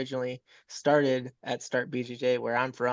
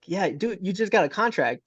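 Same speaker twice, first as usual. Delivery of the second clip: excited buddy; 6 semitones higher, 5 dB louder than usual. Retold or imitated. Buddy's excited news retold.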